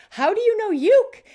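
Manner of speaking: surprised question. Retold or imitated. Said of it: "And I said".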